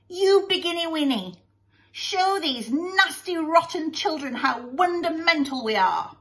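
put-on high, bossy baby-talk voice; gushing boy. Son urges daddy to begin, high childish voice. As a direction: urge daddy on, high and insistent.

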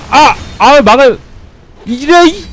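high, loud exasperated cry; frustrated outburst. Real, not acted. Streamer gets hit hard by the invader, high loud exasperated cursing. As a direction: curse at the screen in disbelief. Curses after getting hit.

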